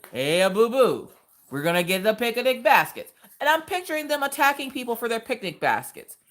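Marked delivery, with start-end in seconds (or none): 0.1-3.1 Yogi Bear. Acted. Cartoon bear calling his little buddy to steal baskets, goofy impression. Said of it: "I'm picturing Yogi Bear and Boo Boo".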